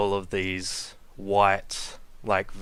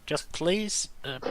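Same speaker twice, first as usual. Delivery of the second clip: put-on old man voice; 7 semitones higher, 3 dB quieter than usual. DM voices sleepy elder.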